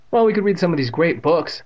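exaggerated false enthusiasm; sarcastic. A narrator's reading. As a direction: suggest it with heavy sarcasm. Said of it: "Evan said sarcastically".

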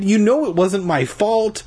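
high-pitched whiny plea; pleading. A narrator's reading. Boy insisting to Tasha it was an accident, pleading. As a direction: protest innocence in a high, imploring voice. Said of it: "I pleaded".

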